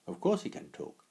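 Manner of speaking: lightly voiced shadow character. Shadow replies.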